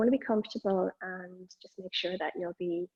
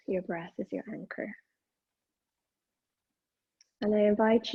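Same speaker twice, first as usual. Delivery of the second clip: measured meditation guidance, pausing between phrases; guided meditation. Acted. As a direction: guide attention to the breath, leaving long silences.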